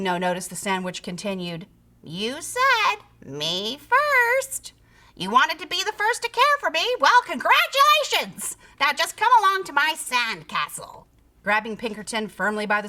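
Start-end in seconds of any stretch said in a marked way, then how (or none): 2.0-11.1 high, loud triumphant voice; gloating creature. A narrator's reading. Sandwich creature to the trapped pig, gloating. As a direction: gloat over your catch.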